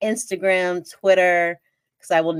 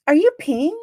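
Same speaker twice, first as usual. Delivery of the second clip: higher, startled ask; shocked question; 7 semitones higher, 4 dB louder than usual. Retold or imitated. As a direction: blurt it out in disbelief.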